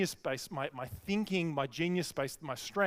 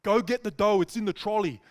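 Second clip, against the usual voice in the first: louder, higher mock Italian accent; 4 semitones higher, 6 dB louder than usual. Big Italian guy sending helper for dough, urgent Italian accent. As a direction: bark orders in a put-on Italian accent. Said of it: "This is my best accent".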